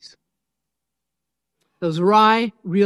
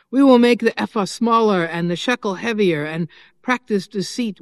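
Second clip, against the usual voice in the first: forceful, louder scripture read like a fiery preacher; fiery prophet reading; 4 dB louder than usual. Acted. Pastor reading the prophet Amos to the congregation, fiery and forceful. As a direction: declaim Amos with fire and weight. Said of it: "let's hear the fiery Amos".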